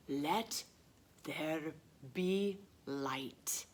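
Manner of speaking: slow whispered title; hushed title. Acted. Teacher revealing the book title in a slow whisper. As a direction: breathe the title slowly.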